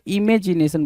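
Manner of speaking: i-MAY-ji-ne-san; second syllable of इमेजिनेशन said "may"; misread imagination. Shown as a demonstration. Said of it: "बोल रहा है". (इमेजिनेशन में साफ़ "मे" बोलें)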